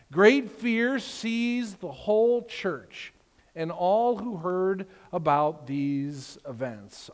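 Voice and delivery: slow, weighty reading of the verse; slow scripture reading. Acted. Pastor reading the verse to the church, slow and grave. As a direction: let each word land slowly.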